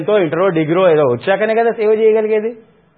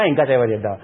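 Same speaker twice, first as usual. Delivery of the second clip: mocking echo; 5 semitones lower than usual. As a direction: let the mock fade into a dismissive mutter. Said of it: "అదే దరిద్ర బుద్ధి".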